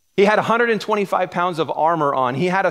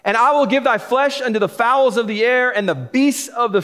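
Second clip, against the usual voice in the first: Goliath taunting; 5 semitones higher than usual. Acted. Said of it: "the Philistine said to David".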